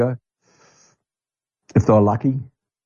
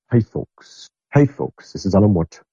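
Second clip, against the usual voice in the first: put-on Alan Watt Canadian accent. Imitating Alan Watt opening his show, slight Canadian accent. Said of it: "had a kind of a Canadian".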